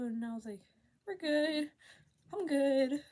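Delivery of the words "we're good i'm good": high, loud, overeager answer; mock-nervous cover-up; nervous reassurance. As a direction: insist too loudly, pitched up. Retold nervous answer to cop.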